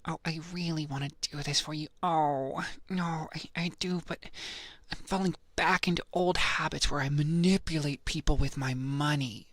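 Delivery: impersonated reluctant star, sighing out the words; Jennifer Coolidge. Acted. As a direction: stay in the impression, fretting. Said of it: "to do Jennifer".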